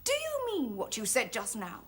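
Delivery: controlled, measured indignation; offended but held in check; stern challenge. Acted. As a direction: demand an answer without raising the voice. Challenges his insult, first take.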